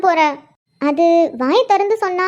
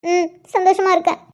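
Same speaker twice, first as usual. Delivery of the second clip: tearful. Acted. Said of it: "இப்படிதான் அழுதுகிட்டு சொல்லுவாங்களா".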